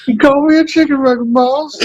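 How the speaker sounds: high, fast Southern whine; mock Alabama accent. Farmhand answering the cop in a mock Southern accent. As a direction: squeak back in a hammed-up Alabama voice. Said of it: "That's all our Alabama accents".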